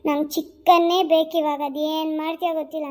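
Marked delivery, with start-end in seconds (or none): 0.1-1.6 put-on drunken demand. Drunk husband demanding chicken.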